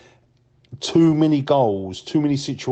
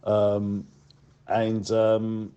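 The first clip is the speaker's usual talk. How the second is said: ordinary talk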